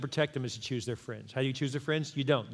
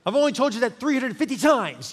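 laughing retort; 8 semitones higher, 7 dB louder than usual. Retold or imitated. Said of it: "We're like".

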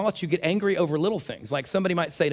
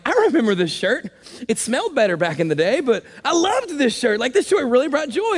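fond nostalgic musing; 8 semitones higher, 4 dB louder than usual. Retold or imitated. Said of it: "I'm like".

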